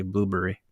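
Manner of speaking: "blueberry" with the middle swallowed; British-style blueberry. Shown as a demonstration. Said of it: "They say blueberry".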